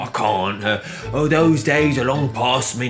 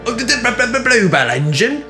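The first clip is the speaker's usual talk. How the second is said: much higher, stuttering astonishment; aghast stammer; 12 semitones higher, 4 dB louder, faster than usual. A narrator's reading. Richard recognises the famous engine, aghast and stuttering. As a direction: trip over it, amazed. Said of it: "Richard was aghast".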